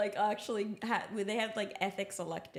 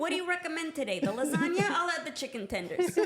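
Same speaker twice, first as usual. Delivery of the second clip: mock customer; 8 semitones higher, 4 dB louder than usual. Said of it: "mock restaurant order".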